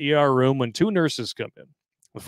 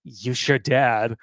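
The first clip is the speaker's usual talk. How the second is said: disgusted; much slower than usual. Retold or imitated. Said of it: "all disgusted".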